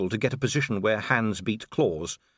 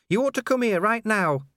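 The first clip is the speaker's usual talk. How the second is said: high, louder urgent plea; urgent dwarf; 11 semitones higher, 4 dB louder than usual. A narrator's reading. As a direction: get him to come at once. Cheery urgent.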